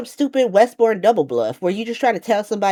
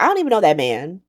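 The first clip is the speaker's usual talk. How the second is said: sassy denial; faster than usual. Retold or imitated. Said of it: "Charlotte was so funny".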